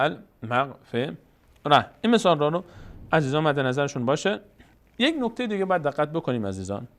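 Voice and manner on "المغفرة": المغفرة in separate syllables, ending -rah; careful pausal reading of المغفرة. Shown as a demonstration. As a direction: finish المغفرة on h instead of t.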